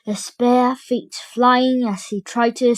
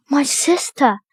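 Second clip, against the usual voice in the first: gasping; 3 semitones higher than usual. Acted. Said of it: "gasped Tom".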